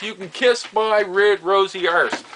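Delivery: slow, high-pitched mock telling-off; retold defiant insult. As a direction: imitate telling a neighbour off, drawing it out. Old man tells off neighbour.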